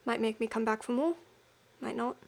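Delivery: put-on rough stab at a Cockney accent; Cockney attempt voicing a game character, dark shady customer musing over a drink, in attempted Cockney. Shady customer weighing up whether to return, in attempted Cockney. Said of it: "the closest to Cockney".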